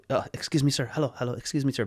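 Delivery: lightly voiced, hesitant polite nurse; shy nurse. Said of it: "Very shy guy".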